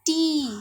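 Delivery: टी said as a long clear tee; model word. Shown as a demonstration. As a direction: stretch the vowel in टी. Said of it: "क्या pronunciation होता है".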